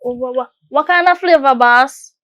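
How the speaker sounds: keen Jamaican patois question; Jamaican accent. Acted. Asking the boss about the favor in a Jamaican accent. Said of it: "I don't know why I'm talking like this".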